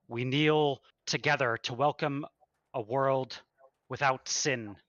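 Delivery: hint of a booming holy man; smooth rehearsed sermon. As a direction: deliver it like a practiced sermon. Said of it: "his voice booming out is almost like this velvety smooth, a rehearsed speech".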